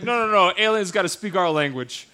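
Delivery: a hint of a pushy patriot lecturing; lightly voiced bossy American; mock jingoist.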